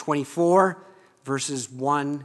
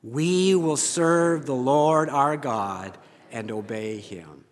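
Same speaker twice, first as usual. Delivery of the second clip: read aloud together; slower than usual. Shown as a demonstration. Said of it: "let's say this out loud".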